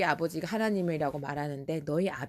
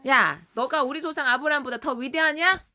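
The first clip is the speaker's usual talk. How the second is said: higher, louder indignant question; acted defiant challenge; 7 semitones higher, 6 dB louder than usual. Jews comparing Jesus with Abraham, acted indignant challenge. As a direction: throw it at him as a dare. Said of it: "막 대들었어".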